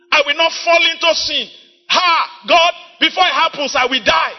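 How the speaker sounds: urgent plea. Retold or imitated. Retelling urgent plea to God.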